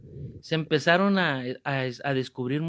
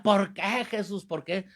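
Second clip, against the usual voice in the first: higher plaintive cry, fading off; mock anguished outcry; 5 semitones higher than usual. Man distracting everyone at the retreat, mock anguished outcry. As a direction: imitate the wailer everyone turns to look at. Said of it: "cada vez que decía".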